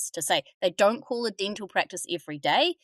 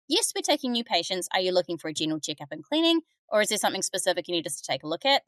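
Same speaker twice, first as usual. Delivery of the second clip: guiding receptionist script; faster than usual. Shown as a demonstration. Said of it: "two ways we could have done that differently".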